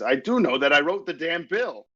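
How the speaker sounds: acted, high shouting. Acting out Superman's debate reply to Lex Luthor: acted yelling. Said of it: "you don't have to yell so much".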